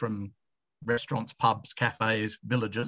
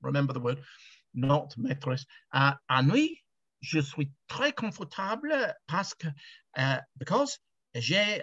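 schoolboy French; 4 semitones higher than usual. Retold or imitated. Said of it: "And I said".

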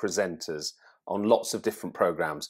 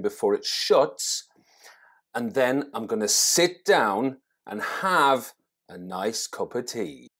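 a touch of slow gliding presenter tune in everyday chat; mild presenter glide on everyday errands; presenter singsong; 2 semitones higher than usual. Shown as a demonstration. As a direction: read a shopping list like a TV voiceover. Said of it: "if I spoke like this in a normal conversation".

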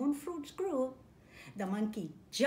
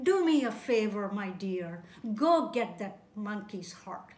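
wife voice; 5 dB louder, slower than usual. Acted.

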